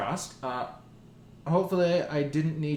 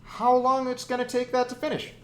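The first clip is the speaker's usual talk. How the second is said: drawn out; 9 semitones higher, 4 dB louder than usual. Real, not acted. Dramatic drawn-out uncertainty.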